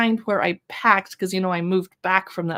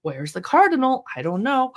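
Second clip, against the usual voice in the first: mild enthusiastic read-aloud; 3 semitones higher than usual. Shown as a demonstration. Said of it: "read it with an enthusiastic tone of voice".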